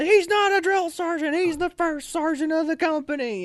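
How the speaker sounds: strained sergeant's reprimand, acted out; imitated yelling. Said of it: "I get yelled at".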